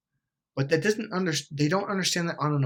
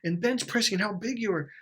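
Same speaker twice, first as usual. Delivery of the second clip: mock viewer objection; 10 semitones higher than usual. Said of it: "And you think".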